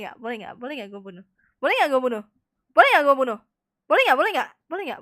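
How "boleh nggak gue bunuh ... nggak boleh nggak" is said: excited. Real, not acted. Repeating question, loud again.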